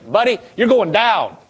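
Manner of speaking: lightly acted cocky trash talk; mock battle taunt, rising at the end; imitated bold taunt. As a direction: talk big to a giant, picking up pace. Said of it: "he was saying".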